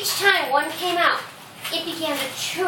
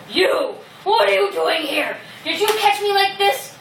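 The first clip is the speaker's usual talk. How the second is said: indignant lion; 6 semitones higher than usual. Acted. Angry lion character confronts the mouse.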